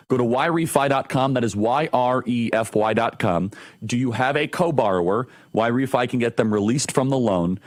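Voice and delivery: upbeat sponsor read for the show. Acted. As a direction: sell the loan refinancer straight to the listeners. Host reads sponsor ad.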